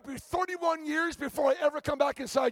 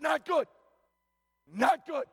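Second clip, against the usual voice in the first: emphatic. Retold or imitated. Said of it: "it was so emphatic".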